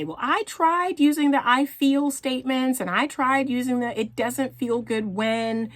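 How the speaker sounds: lightly voiced complaint, half-whiny; frustrated client. Coach imitating women who say their words failed. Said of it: "you come to me and you say".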